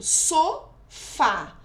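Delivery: "sofá" split up, with a strong FÁ; stress on FÁ. Shown as a demonstration. Teacher showing pupils the strongest syllable, stress on FÁ in "sofá". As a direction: lean on the final FÁ of "sofá". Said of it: "É o fá".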